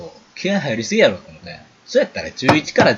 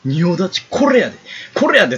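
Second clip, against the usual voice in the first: rising, mock-bossy taunt that climbs higher; mocking imitation; 5 semitones higher than usual. Boys ni showing her pose, a rising mocking taunt. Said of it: "その仁王立ちしてる子の真似".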